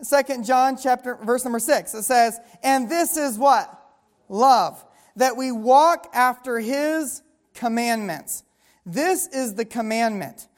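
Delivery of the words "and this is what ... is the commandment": drawn-out reading with a prompt; preacher's measured scripture read; slow scripture reading. Acted. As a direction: let the verse land slowly.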